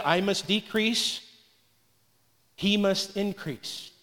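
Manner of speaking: soft, slow and humble; humble quoting. Retold or imitated. Pastor quoting John the Baptist, soft and slow. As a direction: let it sink, softly. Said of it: "Remember he said".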